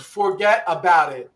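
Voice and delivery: forget about it said slowly word by word; wrong three-word way. Shown as a demonstration. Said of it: "It's not three words".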